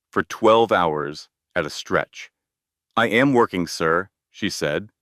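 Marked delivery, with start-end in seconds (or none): 3.0-4.1 careful weight on "sir"; "sir" set apart, deliberate; emphasis on sir. A narrator's reading. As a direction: lean on "sir" coolly to keep him at a distance. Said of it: "putting careful emphasis on that last word".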